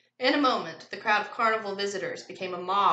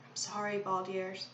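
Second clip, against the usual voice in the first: quiet murmur; 7 dB quieter than usual. A narrator's reading. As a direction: murmur it privately. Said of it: "she murmured quietly".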